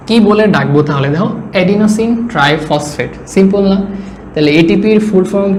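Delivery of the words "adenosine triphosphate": slow emphasis. Shown as a demonstration. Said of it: "আস্তে আস্তে কথা বলতেছি".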